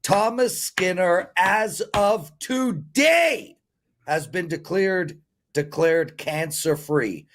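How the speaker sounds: emotional announcement of a friend's good news. Real, not acted. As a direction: announce it slowly, choked up with joy. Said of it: "I'm emotional, dude".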